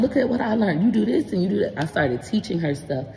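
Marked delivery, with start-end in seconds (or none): 0.0-1.7 put-on eager child showing off. Voices child self teaching grandma.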